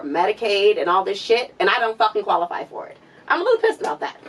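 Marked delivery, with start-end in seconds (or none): 3.3-4.2 high-pitched, laughing exasperation; laughing and pissed. Real, not acted. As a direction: vent the anger through laughter. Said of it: "I'm fucking pissed".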